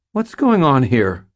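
loud, high, frightened demand; panicked high-pitched demand; high, squeaky fear. A narrator's reading. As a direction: squeak it out in alarm. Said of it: "my voice high and squeaky with fear".

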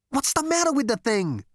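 high, exasperated outburst; spat out. A narrator's reading. Zaphod fed up with the elevator, spitting it out. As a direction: spit it out in irritation. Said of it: "he spat".

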